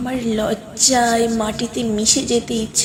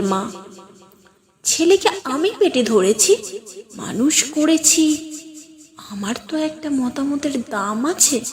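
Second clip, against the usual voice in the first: commanding mother. Acted. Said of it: "ব্যক্তিত্বময় কণ্ঠে বললেন".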